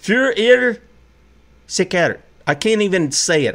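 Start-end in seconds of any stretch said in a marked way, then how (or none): 0.0-2.2 a hint of a German accent, the first word higher; clumsy mock German accent on a Nazi phrase; bad German accent. Host mocking a Nazi phrase in a bad German accent. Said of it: "I'm probably using a bad accent here".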